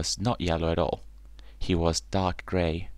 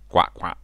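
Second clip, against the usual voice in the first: loud, quick quacks; punchy little duck calls; duckling quack; 6 dB louder than usual. A narrator's reading. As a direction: quack back eagerly like ducklings. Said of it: "they replied".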